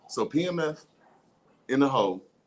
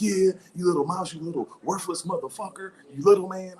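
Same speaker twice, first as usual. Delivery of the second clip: cocky elephant; 3 semitones higher, 4 dB louder than usual. Pretend. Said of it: "the elephant all cocky".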